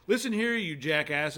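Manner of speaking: a mock-stern, drawn-out scolding; telling someone off. Caller insulting somebody in Scotland, mock telling-off. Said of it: "calling somebody in Scotland and you're like".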